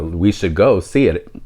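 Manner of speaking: words cut by a burp. Real, not acted. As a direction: burp slipping into the line. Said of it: "burping everywhere".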